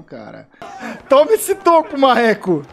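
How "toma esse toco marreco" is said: loud, high, laughing gloat; laughing taunt. Real, not acted. Taunting after a block.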